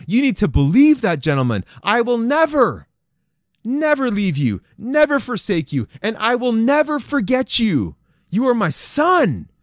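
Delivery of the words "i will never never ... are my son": rising, fervent preaching as God, higher; fervent promise. Acted. Preacher proclaiming God's promise to the men, fervent and high. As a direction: build each never with fire.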